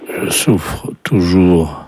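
slow, measured card message with pauses; slow dictation. Pretend. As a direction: draw the words out for someone writing.

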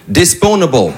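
disponible said the American way, as if it were English; American tourist saying disponible; American accent. Retold or imitated. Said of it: "comment on dit disponible en anglais".

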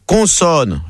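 plain Parisian "Consonne"; Parisian accent. Acted. Parisian contestant carrying on, Parisian accent. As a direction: say "Consonne" with a Parisian nasal first vowel. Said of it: "le Parisien continue".

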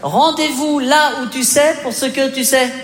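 reading out the text. Retold or imitated. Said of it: "C'est qui, ce Claudio?".

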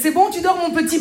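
a hint of a high squeaky prince. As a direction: lightly squeak it out like a kid's alarm. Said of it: "sa voix d'alarme de kangou". (petite voix aiguë de prince, à peine jouée)

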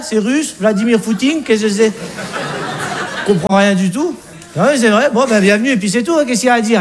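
lightly voiced Alsatian father-in-law; a hint of a provincial Alsatian dad. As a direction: play the wary father questioning his daughter's fiancé. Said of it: "Le père alsacien nous aperçoit".

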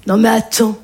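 low, slow, mock-innocent protest; a hint of a gossiping friend feigning innocence; fake innocent friend. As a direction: play the friend who swears she'd never tell. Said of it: "qui te fait".

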